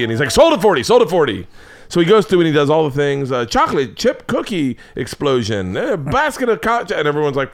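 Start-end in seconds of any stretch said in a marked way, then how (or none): 0.3-1.5 quick auctioneer sell call; mock auctioneer calling sold. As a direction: bang the gavel, sold. Auctioneer selling item.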